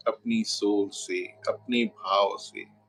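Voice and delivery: unhurried meditation guidance with long pauses; guided meditation. Real, not acted. Guru settling viewers into Navratri meditation, measured guided-meditation voice. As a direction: lead them gently inward, phrase by phrase, leaving long silences.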